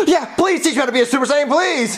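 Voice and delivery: fast, breathless plea; rushed, pleading eagerness; eager begging. Acted. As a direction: beg excitedly after a gasp. Begs to be taught.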